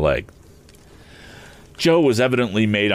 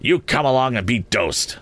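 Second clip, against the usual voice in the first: higher-pitched, lightly voiced scolding sister; stern sister's order; 5 semitones higher than usual. A narrator's reading. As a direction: order the child along, pitched up. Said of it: "saying nothing more than the awful words".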